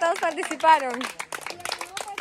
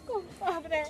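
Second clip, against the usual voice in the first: softer, drawn-out fake sobbing; mock crying; 4 dB quieter, slower than usual. Shown as a demonstration. Host showing players the last emotion, mock crying. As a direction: whimper it slowly as if in tears.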